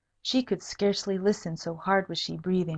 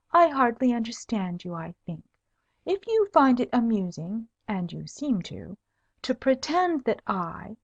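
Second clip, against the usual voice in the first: cold; 3 semitones higher than usual. Acted. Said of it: "with much coldness".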